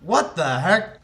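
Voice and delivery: loud, high startled monster bellow. Acted. Game master voices a monster spotting the party, bellowing. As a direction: bellow it out at the intruders. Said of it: "one of them bellows".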